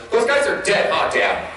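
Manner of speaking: put-on high little-kid voice; five-year-old son. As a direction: imitate a small child checking with Dad.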